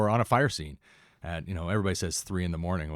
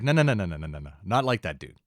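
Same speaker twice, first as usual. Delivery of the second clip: hasty denial; 4 dB louder than usual. Retold or imitated. Sister disowning her brother to a new teacher, hasty denial. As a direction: rattle off the noes as an imitated sister.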